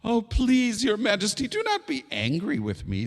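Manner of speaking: high, pleading little bird. Acted. Hoopoe begs the angry king, pleading high. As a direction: beg the king in a high small voice.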